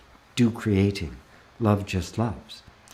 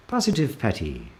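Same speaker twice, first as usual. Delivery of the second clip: put-on playful Irish accent; a light, put-on Irish lilt. Host greets a viewer by screen name, mock Irish accent. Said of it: "say that with an Irish accent".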